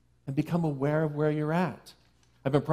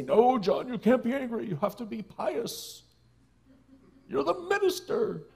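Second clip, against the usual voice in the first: stern inner voice; 10 semitones higher than usual. Retold or imitated. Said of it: "I didn't say".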